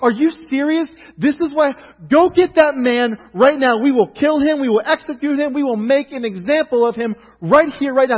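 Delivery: high, loud furious outburst at the injustice; enraged king. Retold or imitated. King David, hearing Nathan's story, bursting out in loud rage. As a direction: erupt like a king who just heard a crime. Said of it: "He gets enraged".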